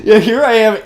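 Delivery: laughing through the words. Real, not acted. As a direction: giggle while saying it. Laughing at himself.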